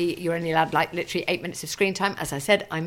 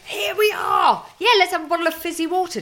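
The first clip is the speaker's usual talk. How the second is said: cheerful; 10 semitones higher than usual. Retold or imitated. Acting bright upbeat café order.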